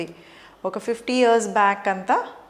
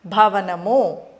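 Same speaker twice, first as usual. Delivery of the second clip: slow teacher model; 3 dB louder, much slower than usual. Shown as a demonstration. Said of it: "ఏంటి?".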